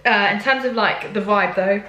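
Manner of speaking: talking through hiccups; hiccuping between words. Real, not acted. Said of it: "sorry, I'm hiccuping now".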